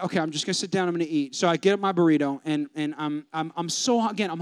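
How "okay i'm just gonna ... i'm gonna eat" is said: resigned. Retold or imitated. Resigning himself after bad order.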